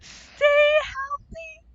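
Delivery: very slow high drawn-out wail; mournful keening wail. Pretend. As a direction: draw it out like a keening ghost. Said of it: "that is what he'd say".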